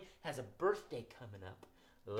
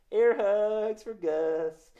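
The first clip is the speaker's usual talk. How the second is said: 1 air hug; 5 semitones higher, 9 dB louder, much slower than usual. Real, not acted.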